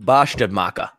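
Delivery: put-on low, Scottish-accented character voice; lightly put-on Scottish accent. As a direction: answer as a Scottish-accented dwarf. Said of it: "but a Scottish accent".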